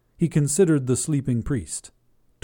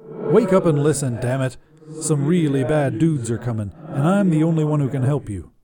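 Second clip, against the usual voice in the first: angry demon shout; 3 semitones higher, 4 dB louder than usual. Acted. Demon yelling at dangling priest.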